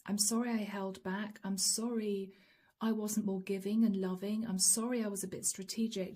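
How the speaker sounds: softly voiced inner apology, hushed; a hushed confession to the divine; quiet confession. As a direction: murmur it like a private prayer of regret. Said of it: "silently saying to the divine".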